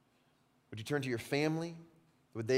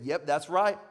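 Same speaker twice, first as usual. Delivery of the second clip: smug disciples; 4 dB louder than usual. Retold or imitated. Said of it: "they're nodding their head in agreement".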